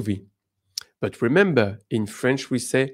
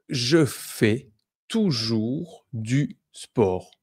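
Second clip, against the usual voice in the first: slow, hushed, unvoiced example; slow whisper; much slower than usual. Shown as a demonstration. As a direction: whisper it slowly, word by word. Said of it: "example sentence read slowly".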